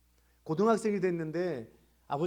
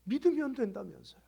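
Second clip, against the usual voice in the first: higher, more insistent accusing repeat; retold reproach; 6 semitones higher, 5 dB louder than usual. Caller reproaching her pastor, imitated with raised voice. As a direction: throw the promise back, voice raised.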